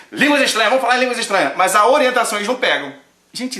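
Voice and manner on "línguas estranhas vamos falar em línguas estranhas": mocking quote. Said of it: "o pessoal pega assim".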